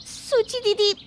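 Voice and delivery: very high, loud, stretched cry of being burned; yelp of pain. Acted. Bahu scalded by spilled tea, crying out high and loud.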